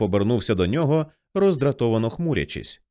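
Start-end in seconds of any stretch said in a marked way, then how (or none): none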